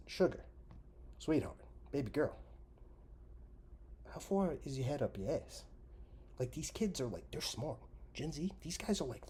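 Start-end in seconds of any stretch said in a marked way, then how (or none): 0.1-5.6 syrupy sarcastic sweetness; mock sweet condescension. Real, not acted. Condescending rant at Holly.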